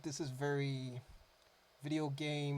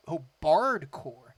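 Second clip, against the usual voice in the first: excited; 13 dB louder, slower than usual. Real, not acted. Delighted realization about bard band.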